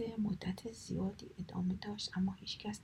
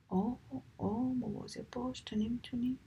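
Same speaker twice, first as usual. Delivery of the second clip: pained; 4 semitones higher than usual. Acted. Thorns pulled from foot.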